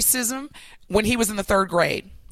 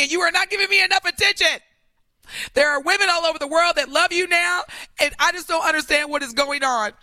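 mock tearful girlfriend; 2 semitones lower than usual. Girlfriend complaining to Jonathan about neglect, mock tearful plea. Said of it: "White girl tears".

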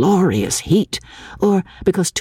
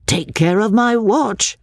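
high, worried protest; alarmed cry; 7 semitones higher than usual. A narrator's reading. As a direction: cry out to protect your things. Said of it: "cried Mister Beebe".

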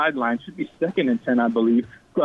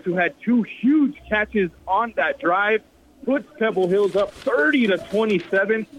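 excited; 5 semitones higher than usual. Real, not acted. Calls the two-point conversion.

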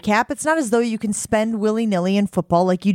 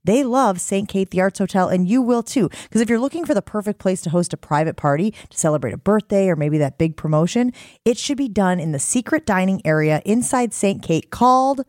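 upbeat live ad read. Acted. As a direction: sell it like a radio spot. Host reads live ad.

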